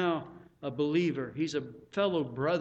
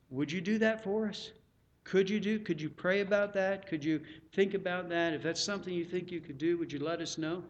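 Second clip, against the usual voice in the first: polite asking. Acted. Pastor asking for van volunteers, polite request. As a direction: invite them to think it over. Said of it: "But I'm asking you".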